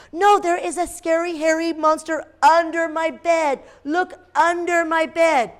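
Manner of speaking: put-on insistent child. A narrator's reading.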